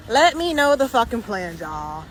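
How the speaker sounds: repeats it, demanding now; insistent demand. Real, not acted. Ranting after walking out of dinner.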